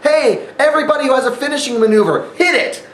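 mock rallying call. Mock call for finishers free-for-all.

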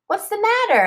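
mother firefly checks on sobbing Lucy; mother asking. A narrator's reading. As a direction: ask gently like a worried mum. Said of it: "asks her mother".

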